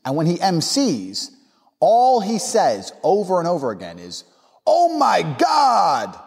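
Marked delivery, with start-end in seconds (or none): 4.7-6.2 put-on high, drawn-out mic shout in a French accent; French party MC. French DJ hyping his party over the mic, high drawn-out shout. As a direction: stretch it out like an obnoxious French MC. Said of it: "like that".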